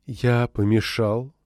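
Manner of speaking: slow, lilting alien voice; like harp strings, slow and sung; singsong alien voice. Acted. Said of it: "своим певучим, похожим на перелив струн арфы альфанским говором".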